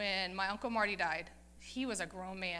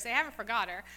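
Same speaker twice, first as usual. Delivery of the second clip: ordinary delivery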